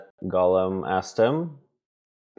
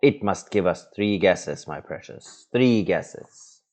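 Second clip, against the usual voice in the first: Gollum. Acted. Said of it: "Gollum speaking".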